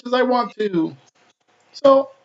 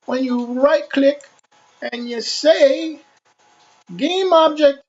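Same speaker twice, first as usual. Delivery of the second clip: cartoony voice; 3 semitones higher than usual. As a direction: talk like a cartoon character. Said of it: "I'm gonna use a cartoony voice".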